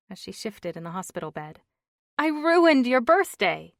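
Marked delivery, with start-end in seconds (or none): 2.2-3.7 higher, slow, upset woman's lament; tearful wife. Acted. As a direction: she blames herself, near tears.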